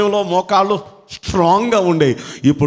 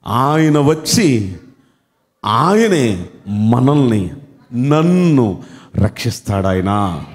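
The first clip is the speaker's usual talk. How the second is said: slow, lower, dwelling on each phrase; tender emphasis; 4 semitones lower, much slower than usual. Acted. Preacher dwelling on the promise for his hearers, slow and tender.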